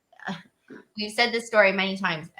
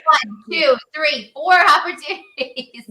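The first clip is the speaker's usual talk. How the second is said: louder, higher count, slowing on each number; emphatic counting; 6 semitones higher, 7 dB louder, slower than usual. Real, not acted. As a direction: tick off every chance with weight.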